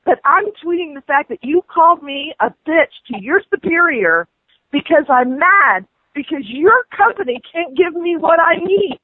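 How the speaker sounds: rising, furious rant at the agent; angry rant. Real, not acted. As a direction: let the anger build and spill over.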